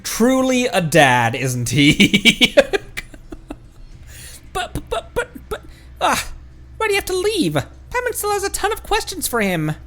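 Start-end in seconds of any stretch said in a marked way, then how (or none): 4.5-9.7 high, whiny little companion; Paimon's whiny voice. Acted. Paimon protesting as the dad leaves, high whine. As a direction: whine it up high like a pouting sidekick.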